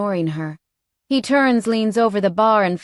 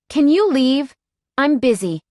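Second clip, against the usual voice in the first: irritated snap; 7 semitones higher, 5 dB louder than usual. Acted. Heroine snaps at pestering biker.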